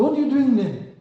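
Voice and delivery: lightly acted incredulous question; puzzled challenge. Retold puzzled challenge after confession.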